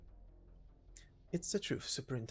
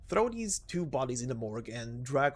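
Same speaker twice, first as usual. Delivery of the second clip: louder, commanding bark; loud order; 6 dB louder than usual. Acted. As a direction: boss yelling at his men. Superintendent orders the guards.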